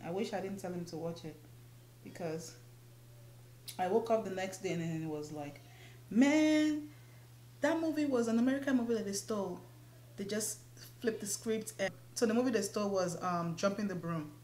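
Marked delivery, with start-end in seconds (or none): 6.1-11.7 much louder, higher and fast; outraged realization. Retold or imitated. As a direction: blurt it out in disbelief. Realizing the movie was stolen.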